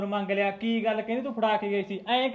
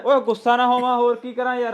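loud angry snap at the father-in-law; son-in-law loudly snapping at his in-laws; angry outburst; 8 dB louder than usual. Acted. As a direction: lash out, fed up. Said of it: "ਗੁੱਸਾ ਜਿਹਾ ਹੋ ਰਿਹਾ ਹੈ".

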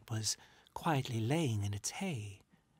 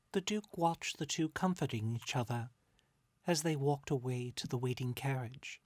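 ordinary delivery

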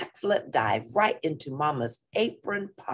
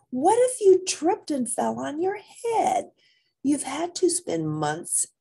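scolding mama; 11 semitones higher than usual. Acted.

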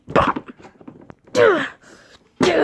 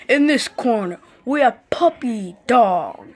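announcer; 2 semitones lower than usual. Acted. Ring announcer introducing Puppy Dog, light announcer voice. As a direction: announce the fighter grandly.

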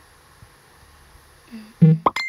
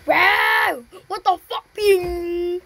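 startled loud outburst; surprised shout; 4 dB louder, slower than usual. Real, not acted. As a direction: blurt it out, caught off guard. Sudden game surprise.

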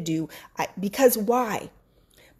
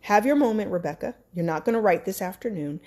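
firm self-talk; 4 semitones lower, 4 dB quieter than usual. Retold or imitated. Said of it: "I said".

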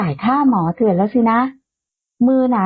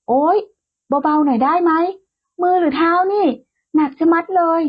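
whiny complaining yelp; 6 semitones higher than usual. A narrator's reading. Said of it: "พ่อเลี้ยงหนุ่มเอะอะโวยวายจนเสียงดังลั่นห้องรับแขก".

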